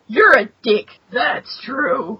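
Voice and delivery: lightly voiced gruff old man; a hint of a crusty mentor; Stick voice. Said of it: "I like your Stick voice".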